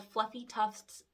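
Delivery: slow careful slight lisp. Real, not acted. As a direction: ease through the lisp slowly. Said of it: "I have a slight lisp. I have a hard time saying that".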